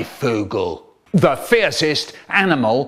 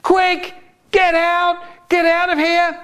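roaring warning. Acted. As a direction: roar at everyone to run. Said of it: "he's roaring".

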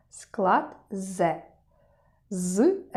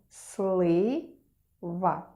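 drawn-out word. Shown as a demonstration. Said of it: "Який склад ви почули спочатку?".

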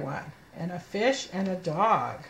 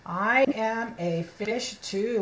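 slow model reading; slower than usual. Shown as a demonstration.

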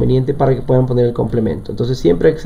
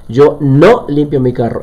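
"no" drawn out and leaned on, slower sentence; slowly, with clear weight on "no"; stress on "no"; 3 dB louder than usual. Shown as a demonstration. Teacher showing students where the negation goes, stressing "no".

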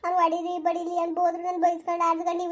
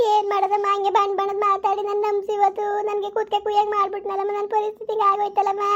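wailing complaint of a wronged woman; tearful lament; 3 semitones higher than usual. Acted. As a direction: lament helplessly to an older confidante. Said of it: "ಆಯ್ತು ಸುಮ್ಕಿರು, ಸಮಾಧಾನ".

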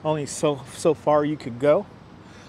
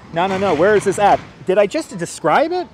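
louder, mock-annoyed no no no; exasperated; 3 semitones higher, 5 dB louder than usual. Real, not acted. Tour guide teasing viewers who missed it, exasperated. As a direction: playfully scold the chat for not listening.

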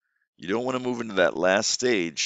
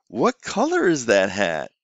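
slow teacher question; 4 dB louder, slower than usual. Shown as a demonstration. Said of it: "great point to do that".

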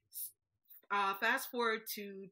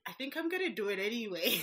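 quick, laughing, a little higher; laughing defiance; 4 semitones higher, 4 dB louder, faster than usual. Retold or imitated. Answering her disapproving mom, quick and laughing. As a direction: brush it off with a giggle. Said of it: "And I was like".

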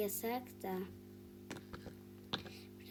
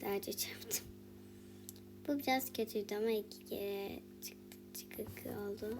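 whisper; 7 dB quieter than usual. Real, not acted. Quiet commentary during play.

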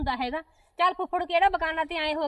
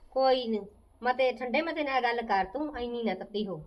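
soothing calm; 4 semitones lower than usual. Acted. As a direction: talk her down gently. She calms the angry aunt.

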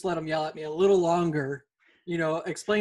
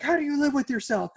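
imitating angry seller; 8 semitones higher, 4 dB louder than usual. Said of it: "he's like".

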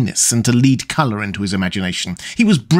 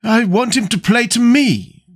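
a touch higher, lightly acted dinner-party voice; lightly voiced society guest; 11 semitones higher than usual. At a dinner table, a lightly voiced society guest. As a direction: play the guest as a lightly sketched character.

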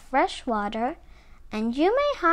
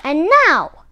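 scolding threat; 3 semitones higher, 10 dB louder than usual. A narrator's reading. Alligator threatens Armadillo while scolding.

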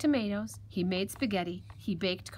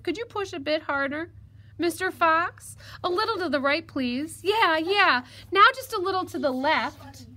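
high, louder little piglet voice; crafty piglet, coaxing; 7 semitones higher, 6 dB louder than usual. Acted. Piglet talks the fox into a bath, coaxing. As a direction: suggest it innocently in a high piglet voice.

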